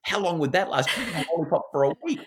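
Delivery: high, loud, fast delighted pitch; excited fantasy. Retold or imitated. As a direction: hype the dream up. Mother building excitement with daughter.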